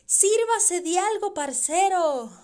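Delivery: friendly barroom offer from a countryman; hearty drinking buddy. Acted. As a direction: call him over to share a bottle. Paisano offers Julián a drink.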